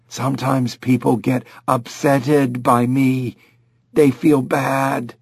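lightly voiced chimp, slow at the end; childlike chimp, slowing down; talking chimp. Dave explains to Lynn, slow chimp voice.

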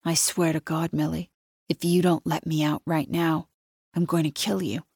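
quiet, offhand death threat; softly tossing off a threat to kill; casual threat. Acted. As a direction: say it like it's nothing. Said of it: "He says it so casually".

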